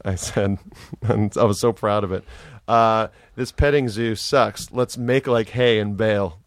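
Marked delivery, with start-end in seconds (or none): 3.3-6.4 embarrassing dad joke. Pretend. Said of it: "I had a great dad joke".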